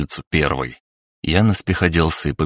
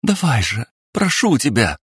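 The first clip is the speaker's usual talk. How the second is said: pleading; 8 semitones higher than usual. A narrator's reading. Pleading to wake him.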